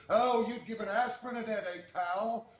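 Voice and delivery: high, sneering tough-guy put-down; Duke from Layer Cake. Retold or imitated. Host to a drunk caller, a high sneering put-down. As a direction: toss off the insult like a film gangster. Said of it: "Borrowing from the Duke in that movie Layer Cake".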